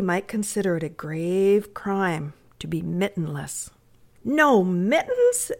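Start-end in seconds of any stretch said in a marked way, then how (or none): 4.2-5.5 high, drawn-out disbelief; slow, high-pitched dismayed child. Acted. Little Amy shocked at the boy's bare hands, dismayed. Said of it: "exclaimed Amy in dismay".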